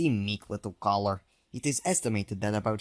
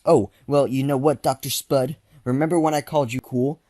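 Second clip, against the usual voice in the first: loud, raised taunting; angry insult; 4 semitones higher, 7 dB louder than usual. Acted. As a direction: tell him off loudly. Caller insults Doctor Spud.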